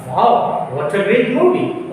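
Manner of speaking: a delighted wow on the movie; excited exclamation. Shown as a demonstration. Teacher telling friends about a film, excited. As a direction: sound thrilled about the movie. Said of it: "इसको आप बोलेंगे आप".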